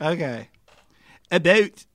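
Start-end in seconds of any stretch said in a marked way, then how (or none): 1.3-1.8 "About" louder in a fake Canadian accent; attempted Canadian accent. Shown as a demonstration. Guest warming up his Canadian accent, louder rising "About". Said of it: "in your Canadian accent".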